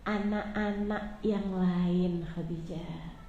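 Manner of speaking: soft, low and slow, comforting; tender reassurance. Acted. The Prophet telling Khadijah their child is in paradise, soft and slow. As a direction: reassure her gently and slowly.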